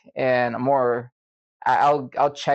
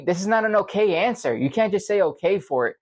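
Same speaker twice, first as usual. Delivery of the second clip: higher-pitched mock scolding; lecturing coworker; 6 semitones higher than usual. Coworker rejecting his okay as an answer, mildly mocking. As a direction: lightly mimic a man's speechifying. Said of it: "He always gives me speeches".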